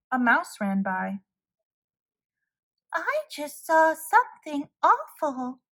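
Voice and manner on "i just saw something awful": cried. A narrator's reading. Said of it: "cried the mouse".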